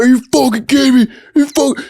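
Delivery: high, fast, choked-up mock rage; imitating tearful outrage. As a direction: act out a big dude losing it. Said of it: "his eyes were, like, welling up".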